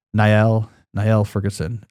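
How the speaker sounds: Niall said as NIGH-el, two syllables; name pronunciation. Shown as a demonstration. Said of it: "people say Neil, but it's N I A".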